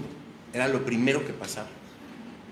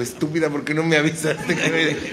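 laughing reproach; 5 dB louder, slower than usual. Retold or imitated.

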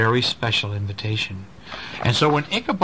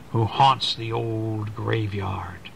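slow, hushed ghost-story whisper; spooky whisper; slower than usual. Acted. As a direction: whisper it to give a chill.

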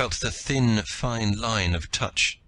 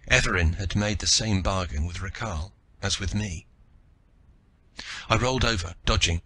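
plain reading voice

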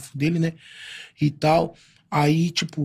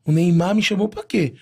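usual speaking voice

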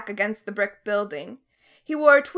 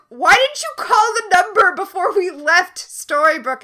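whiny complaint; 7 semitones higher, 6 dB louder than usual. Retold or imitated. Henry voiced complaining.

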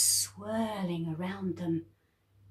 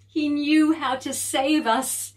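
tearful relief; 7 semitones higher, 7 dB louder than usual. Acted. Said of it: "tears of relief in her eyes".

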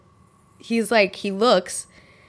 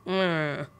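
low, soft drowsy mumble; imitated gibberish mumble; 3 semitones lower, 6 dB quieter than usual. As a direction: mumble like a guest dozing off. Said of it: "Literally just gibberish".

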